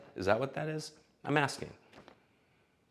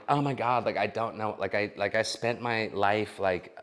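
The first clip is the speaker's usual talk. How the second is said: lightly voiced valley girl, softer, lots of likes; a hint of a lost party girl, softer and trailing; mock vapid woman; 4 dB quieter than usual. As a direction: drift lost and self-pitying like a party girl. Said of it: "some women on there like".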